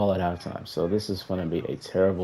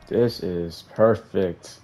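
sarcastic; much slower than usual. Real, not acted.

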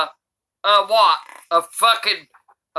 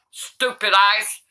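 ordinary talk, nothing marked

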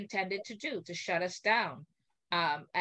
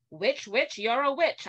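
teasing taunt; 5 semitones higher, 4 dB louder, slower than usual. Retold or imitated. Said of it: "I kept repeating".

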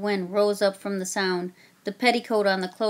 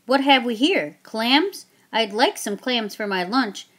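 redcoat calling out; 2 semitones higher, 4 dB louder than usual. Acted. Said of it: "another redcoat called out".

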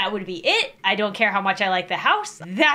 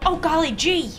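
put-on wholesome 1950s kid; 5 semitones higher than usual. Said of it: "That make you go".

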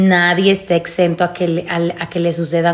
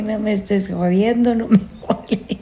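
grumpy dog voice; 3 semitones higher than usual. Pretend. Voicing the dog Lola.

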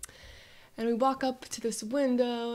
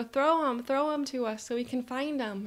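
put-on higher, urgent kid request; eager child; 4 semitones higher than usual. Child urges mom to throw dive toys, eager. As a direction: urge mom on like an excited child. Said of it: "I go".

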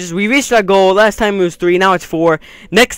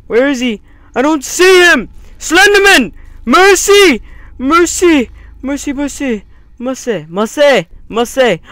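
high frantic yelling; panicked yelling; 9 semitones higher, 7 dB louder than usual. Real, not acted. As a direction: yell for mercy in panic. Screaming at Slender Man.

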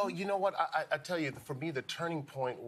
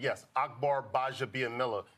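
proud. Retold or imitated. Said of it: "but I just started saying with pride".

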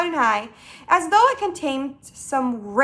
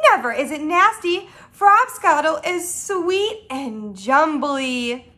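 protesting, then slowing to savor it; mild indignation into slow relish; indignant cry settling; 3 semitones higher, 3 dB louder, slower than usual. Acted. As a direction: defend it keenly, then stretch out the praise. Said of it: "cried the B F G".

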